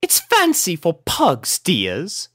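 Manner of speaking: high refined lady voice; posh-sounding pony lady explaining; prim explanation. A narrator's reading. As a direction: explain it grandly. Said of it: "explained Rarity".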